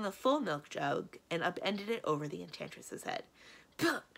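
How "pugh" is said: disgusted splutter; sputter. A narrator's reading. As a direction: splutter as if doused in milk. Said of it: "sputtered Madame Olympia".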